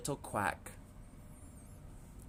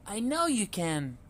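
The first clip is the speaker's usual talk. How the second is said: encouraging mother duck; 9 semitones higher than usual. A narrator's reading. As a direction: cheer the little ones on. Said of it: "Mama said".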